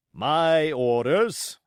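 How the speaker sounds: slow, curt command; short. Acted. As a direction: cut him off firmly. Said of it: "said the captain shortly".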